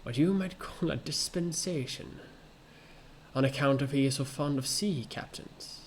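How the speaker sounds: put-on a rough, amateur British accent for a polite gentleman; self-conscious British accent, hammed up; British accent attempt. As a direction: put on a stagey British accent, slowing on the flourishes. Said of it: "I'm gonna try to make an accent for this 'cause I think he's British".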